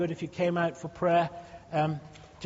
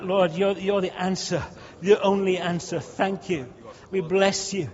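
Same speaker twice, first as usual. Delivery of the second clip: fervent spoken praise, louder on key words; praise prayer; 3 dB louder than usual. Acted. Pastor leading praise before the congregation, fervent. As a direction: lift praise to God in earnest.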